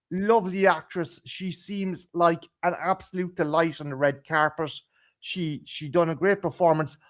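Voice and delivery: ordinary talk, nothing marked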